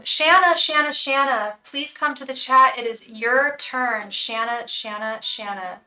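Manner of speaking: put-on loud singsong British accent calling a name. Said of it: "I can do a British accent".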